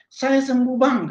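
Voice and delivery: high-pitched retold cry of joy; meniru teriakan gembira. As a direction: mimic a healed friend's excited shout, without real volume. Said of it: "teriak-teriak dia". (menirukan seruan girang karena sembuh)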